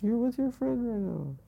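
soft, very high-pitched coaxing. Real, not acted. Soothing a fed-up friend, coaxing high and soft. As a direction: coax your friend in a small, high voice.

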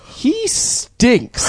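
mock child. Guest voicing her child self talking to grandma, kid voice. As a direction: blurt it like a blunt child.

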